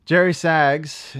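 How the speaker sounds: slow, booming ring announcer call. Pretend. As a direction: draw the name out like a wrestling intro. Introducing a wrestler again.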